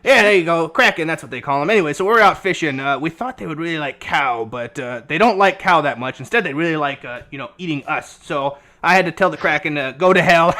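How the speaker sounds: lightly voiced old codger, loud and wandering; a hint of an old sea dog spinning a yarn; rambling old sailor NPC. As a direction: ramble like a half-mad old fisherman.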